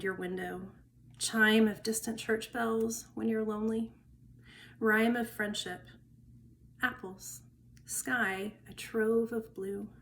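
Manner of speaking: unhurried verse reading, list items set apart; poetry reading. Acted. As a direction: let each image stand between pauses, fading at the close. Reads a second poem aloud.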